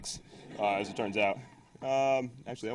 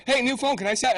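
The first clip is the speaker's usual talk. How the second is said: imitating eager Eric; 12 semitones higher than usual. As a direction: play the hacker sweetly asking to see a new phone. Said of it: "He's like".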